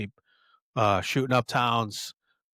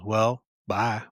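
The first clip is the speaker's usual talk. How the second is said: deadpan. Retold or imitated. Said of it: "you know, deadpan".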